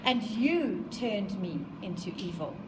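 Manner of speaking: slow, fading plea; beg, dropping away on evil; pleading. Acted. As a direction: creature pleads with his maker, slow and fading. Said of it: "he's really pleading with him".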